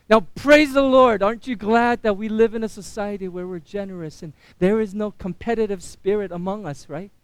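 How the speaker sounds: feigned pious gladness; sarcastic. Acted. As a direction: praise them with tongue in cheek. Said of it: "I'm being very sarcastic".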